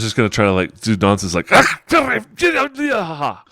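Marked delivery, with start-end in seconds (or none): 1.5-3.4 bad fake Irish accent, high and loud; hammed-up Irish accent. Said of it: "try to fake an Irish accent".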